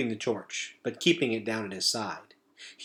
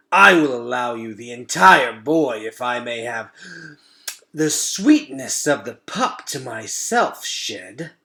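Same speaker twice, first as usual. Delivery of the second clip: slow, louder rat bargaining; relishing rat; 6 dB louder than usual. Acted. Fangor offering Shed a deal over the children, relishing. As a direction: bargain like a gourmet predator.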